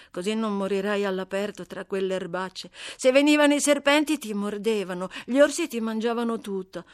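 bold and cheeky, talking back fast; brash white girl Amy. Acted. Amy talks to the dying Seth. (ragazza sfacciata, voce più alta e forte)

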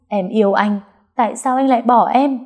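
high, pleading and hurt; heartbroken. Acted. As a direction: cry out the question. Rejected girl pleading.

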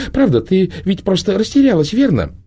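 high, hurried coaxing voice; smooth things over quickly; soothing Proxima. A narrator's reading. Proxima reassures Prima about the girl, high and coaxing. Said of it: "пытаясь обнять дрожащую девочку".

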